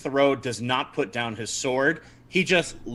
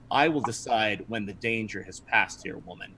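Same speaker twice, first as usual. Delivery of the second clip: Captain Thoreau; 4 semitones lower, 7 dB quieter than usual. Acted. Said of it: "Captain Thoreau looks at her".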